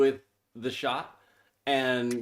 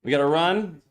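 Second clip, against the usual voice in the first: game call with punched big plays; live play-by-play; 3 semitones higher, 4 dB louder than usual. Real, not acted. Co-host calling the game for livestream viewers, play-by-play. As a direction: call the football action as it unfolds.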